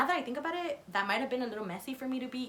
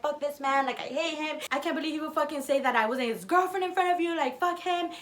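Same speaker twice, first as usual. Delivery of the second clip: mildly heated mock rant, a bit high; retold venting; 4 semitones higher than usual. Girlfriend going off about the man, imitated venting. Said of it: "going off".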